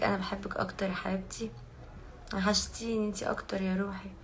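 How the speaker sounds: soft breathy whisper of affection. Real, not acted. Whispering love back to fans on her live stream.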